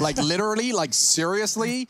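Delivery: a hint of a North American gamer; American accent. Shown as a demonstration. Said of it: "like a North American Counter-Strike player".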